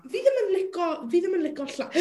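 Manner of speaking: hiccup cuts the words; speaking through a hiccup. Real, not acted. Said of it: "I just hiccuped".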